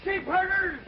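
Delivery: high, indignant yelling at cheats; furious outburst. Acted. Old man shouting at train gamblers, furious and high. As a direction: shout them down as crooks.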